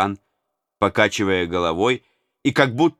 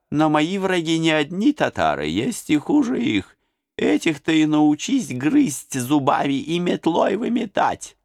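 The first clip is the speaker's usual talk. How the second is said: especially gracious; 8 semitones higher than usual. A narrator's reading. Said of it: "особенно милостивым голосом".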